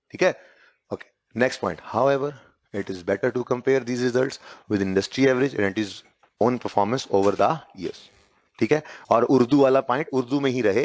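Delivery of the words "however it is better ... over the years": slow, evenly paced dictation. Acted. Teacher giving students the next point, slow dictation. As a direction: read it out slowly for note-takers.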